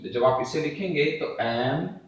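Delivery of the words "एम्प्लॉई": "एम्प्लॉई" split as एम, प्लॉय, ई with pauses; separate ऑय and ई. Shown as a demonstration. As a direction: keep the ई of "एम्प्लॉई" long and apart from ऑय. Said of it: "ऑय का sound और ई का sound अलग".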